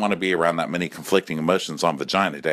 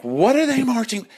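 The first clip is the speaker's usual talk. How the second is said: high, loud indignant whine; jealous gays; 3 dB louder than usual. Retold or imitated. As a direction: sneer at the marchers. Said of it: "they're like".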